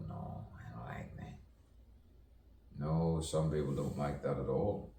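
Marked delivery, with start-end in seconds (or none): 0.1-1.4 hushed, low mock whisper; soft whispered aside in imitation; imitated objection. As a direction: say it under your breath, as if quoting someone. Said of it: "They go".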